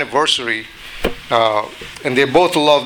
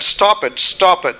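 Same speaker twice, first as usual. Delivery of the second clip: higher repeated begging cry; teacup's plea; 5 semitones higher than usual. Acted. Choking teacup begs the potter to stop, higher pleading. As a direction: plead high, twice over.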